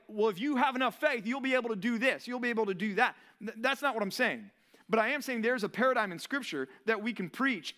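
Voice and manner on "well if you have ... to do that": a mild hammed-up prosperity preacher; lightly mock the preachy confidence; imitating a name-it-claim-it preacher. Mocking name-it-claim-it preachers to the congregation, lightly hammed-up. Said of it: "name it, claim it preachers that are like".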